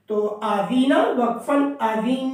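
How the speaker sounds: آوین with a held nasal n; nasal hold. Shown as a demonstration. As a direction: hold the نون of آوین in the nose. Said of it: "یہاں پہ آواز ناک میں روکنا ہے".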